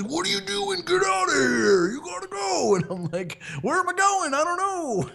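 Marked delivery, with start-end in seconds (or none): 0.0-2.8 very high-pitched imitation of a yelling guard; hammed-up squawking order, stretched at the end; mock frantic shouting. Security guard runs up to the man in the water, mock frantic shouting. 3.6-5.1 very high, squealed retort; mock panicked wail. Caught swimmer answers the security guard, mock panicked squeal.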